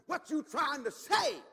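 slow, loud, suspicious challenge; defensive retort. Retold or imitated. Churchgoer challenging the preacher, slow and loud. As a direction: fire it back with crossed arms.

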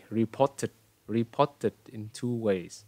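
reported with a clear T in "por-ted"; student's T pronunciation. Retold or imitated. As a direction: imitate the student's "re-PO-ted" with a hard T. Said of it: "bạn nói là gì?". (reported, bắt chước bạn ấy đọc rõ âm T)

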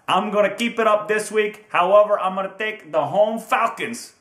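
put-on horrible Chicago accent. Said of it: "this horrible Chicago accent".

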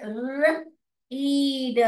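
र-, ईड spelled out slowly sound by sound; sounding out r-eed. Shown as a demonstration. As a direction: break र-, ईड into separate sounds. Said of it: "ये देखिए". (र-, ईड ध्वनि अलग-अलग करके)

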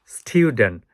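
"স্টুডেন্ট" stressed, said styu-dent; high stress. Shown as a demonstration. Teacher demonstrating high stress, "স্টুডেন্ট" stressed on styu. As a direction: put the weight on styu in "স্টুডেন্ট". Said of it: "কিছু আছে high স্ট্রেসে উচ্চারণ হবে".

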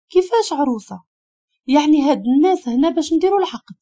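a touch of stunned disbelief; shocked. A narrator's reading. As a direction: question it in mild alarm. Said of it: "اشهقت بالصدمة".

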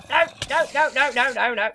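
string of frantic no's, fading down; frantic pleading as the mob attacks; panicked no's. Real, not acted. Panicked repeated no under attack.

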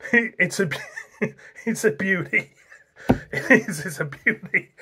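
words breaking into real giggles; fighting back the giggles; giggling. Real, not acted. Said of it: "Getting the giggles".

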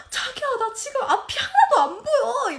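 high-pitched flustered cry for help; retold panic. Wife phoning husband from the highway, retold panic. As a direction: re-enact a panicky phone call, half laughing. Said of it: "너무 당황해가지고".

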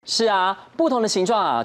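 normal talking voice

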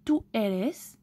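"Tú eres" with u as French ou; demonstrating pronunciation. Shown as a demonstration. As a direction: say "Tú eres" as "tou érès". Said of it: "ça se prononce comme ou".

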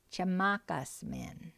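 "Chamakas min" said slowly and evenly, each syllable clear; slow, careful model phrase for students; slow teaching repeat. Shown as a demonstration. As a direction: spell "Chamakas min" out slowly for learners to copy. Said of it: "So let's repeat those".

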